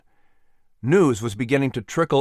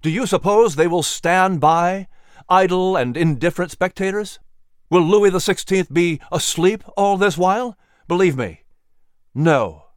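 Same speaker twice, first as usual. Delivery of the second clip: passionate argument; 5 semitones higher, 4 dB louder than usual. Acted. Patrick presses his case.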